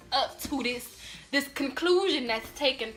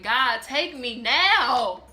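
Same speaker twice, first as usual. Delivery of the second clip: slow inner plea; 6 dB louder, much slower than usual. Retold or imitated. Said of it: "I'm just in my head thinking".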